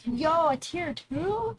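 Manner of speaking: drawn-out high disbelief; slow, high, stunned; surprised. Real, not acted. Surprised at a tier two sub.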